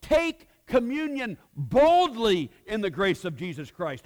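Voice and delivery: high, loud, emphatic voice of God; God pleading. Retold or imitated. God telling believers he still loves them, high and loud. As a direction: insist like a father who won't let go. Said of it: "God looks at you and says".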